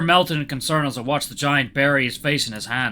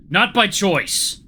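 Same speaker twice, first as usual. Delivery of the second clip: slow, louder, higher retort; wounded snap; 8 semitones higher, 6 dB louder, much slower than usual. A narrator's reading. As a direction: snap back as if offended. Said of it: "He finally snapped at me".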